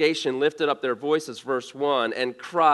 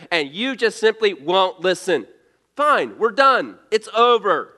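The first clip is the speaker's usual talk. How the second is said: fed-up, louder and higher, done arguing; exasperated Moses; 5 semitones higher, 4 dB louder than usual. Retold or imitated. Preacher voicing Moses fed up with his grumbling people, mock angry outburst. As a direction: throw up your hands and quit. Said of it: "Moses gotta be thinking".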